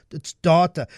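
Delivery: DATA said as "dah-ta"; firm "dah-ta" for DATA; prescribed pronunciation. Shown as a demonstration. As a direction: insist on DATA with a long "ah". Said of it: "That's the only way to pronounce it".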